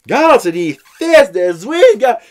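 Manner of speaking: the son showing off; excited kid. Retold or imitated. (enfant tout excité)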